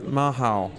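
Mahau said the French way; French pronunciation. Shown as a demonstration. Podcast guest giving the beer's French name, French pronunciation. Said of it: "in French it's pronounced".

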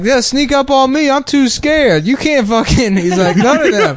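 high, scared comic soldier voice; hammy frightened soldier; Steve Harvey impression.

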